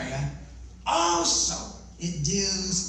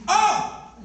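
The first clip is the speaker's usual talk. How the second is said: surprised; 11 semitones higher, 5 dB louder than usual. Pretend. Mock surprise at being thought deaf.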